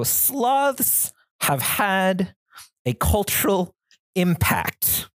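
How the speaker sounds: deadpan serious speech. Retold or imitated. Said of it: "saying this with a dead straight face".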